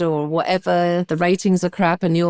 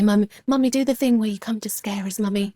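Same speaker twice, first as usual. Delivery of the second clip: imitating her kids; 3 semitones higher than usual. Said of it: "They say in their little English accents".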